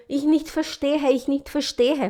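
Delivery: slow, halting broken German; mother on the phone to a doctor, in halting German; broken beginner German. Retold or imitated. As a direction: stumble over German you barely know. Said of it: "Falava tudo errado, pronúncia uma horrível".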